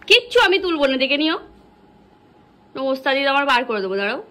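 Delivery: mock scolding. Mother scolding child for mess.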